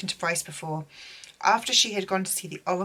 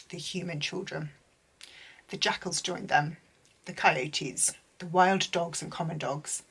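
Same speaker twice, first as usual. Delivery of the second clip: reading aloud from the book. Shown as a demonstration. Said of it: "I'm gonna try and read this without crying".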